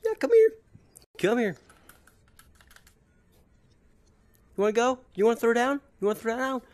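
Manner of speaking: very high mock tough talk; playful taunt. Player dares enemies to throw down, taunting. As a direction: pick a fight in a silly high voice. Challenging game enemies to fight.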